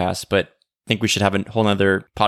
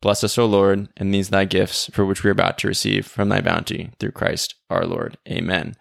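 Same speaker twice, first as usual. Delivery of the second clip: the same grace said evenly, each phrase given its place; deliberate prayer. Shown as a demonstration. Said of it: "If you were to say that slowly".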